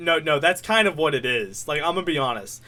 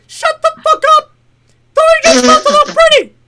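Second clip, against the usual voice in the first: furious squeaky mouse yell; Mickey; 14 dB louder than usual. Acted. Mouse boss shutting down his underling, loud falsetto rage. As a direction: scream it loud in high falsetto. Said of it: "doing my Mickey, like, impression".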